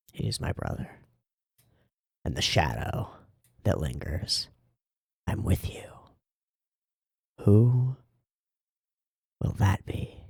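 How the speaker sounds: soft unvoiced whisper. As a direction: breathe the lines hushed. Whispers the character's lines.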